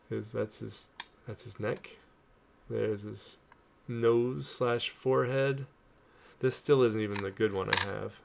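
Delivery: talking around a toothpick; toothpick in mouth. Real, not acted. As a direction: toothpick in mouth, words slightly blocked. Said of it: "I just put a toothpick in my mouth and started talking".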